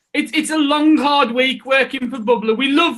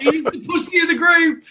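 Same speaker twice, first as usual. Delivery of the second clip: laughing; 3 semitones higher than usual. Real, not acted. Teasing absent friend, laughing.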